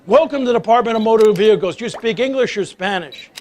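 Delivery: mock-cheerful DMV greeter; cheery greeter. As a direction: play the chirpy clerk greeting a customer. Cheery DMV greeter welcomes him.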